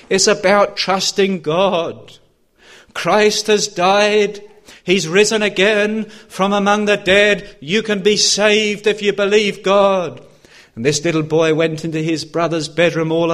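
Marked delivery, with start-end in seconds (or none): 0.1-10.3 slow, weighty gospel proclamation; forceful preaching. Real, not acted. Preacher declaring that Christ has risen, forceful preaching. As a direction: proclaim each phrase with conviction.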